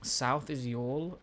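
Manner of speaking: y'all drawn out slowly as "yawl", rising at the end; saying y'all. Shown as a demonstration. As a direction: slowly sound out "South is y'all". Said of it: "That's how you say it".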